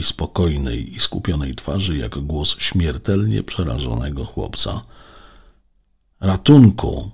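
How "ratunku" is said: loud, high cry for help; terrified boy's scream. A narrator's reading. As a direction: scream it like a boy scared to death. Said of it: "krzyczał Alek".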